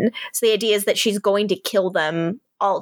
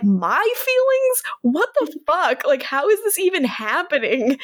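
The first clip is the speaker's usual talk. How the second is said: upset, indignant; 7 semitones higher than usual. Retold or imitated. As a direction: imitate an affronted man, pitch shooting up in disbelief. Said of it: "Yeah, he's, like, upset".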